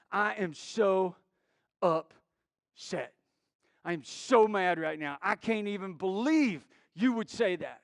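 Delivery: halting mock outrage, words broken by pauses; retold indignant complaint; imitating upset lady. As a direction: seethe slowly, building to full volume. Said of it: "she was upset. She was mad, like, shaking, mad".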